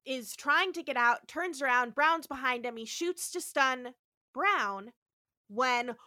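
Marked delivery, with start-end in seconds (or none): 5.5-6.0 drawn-out, raised shout; dramatic reveal. Retold or imitated. Podcaster announces a monster's entrance, dramatic drawn-out shout. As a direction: stretch it out as a big monster entrance.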